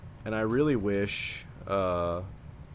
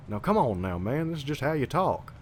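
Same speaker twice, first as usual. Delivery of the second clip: rising, lightly exaggerated hometown Southern twang; hometown Southern accent; 4 semitones higher than usual. Shown as a demonstration. Showing how folks back home talk, Southern accent. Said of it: "everybody talks like this".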